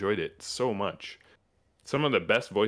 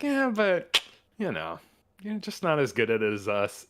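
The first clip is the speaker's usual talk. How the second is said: mock Nazi; 7 semitones higher than usual. Nazis voiced replying.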